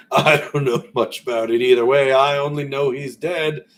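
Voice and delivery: lightly voiced southern merchant; southern accent. Fat merchant shrugs off the death, in a light southern accent. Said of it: "going a little southern there".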